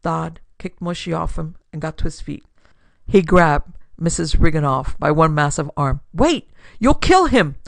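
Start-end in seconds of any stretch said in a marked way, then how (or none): 6.1-7.6 high, loud cry of alarm; urgent shout. Acted. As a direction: shout desperately to stop an attack. Acted desperate attempt to stop attack.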